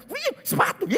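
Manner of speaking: hammed-up, very high squeal; comic falsetto outburst; shrieking wife. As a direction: mimic a wife screeching over a trifle. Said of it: "Tapi istrinya".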